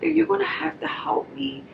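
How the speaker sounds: Nikki insisting. Retold or imitated. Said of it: "she was like".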